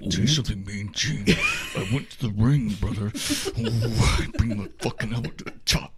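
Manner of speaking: low, soft Chicago accent mock promo; lightly imitating a Chicago wrestler; deep Chicago accent. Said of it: "this deep Chicago accent".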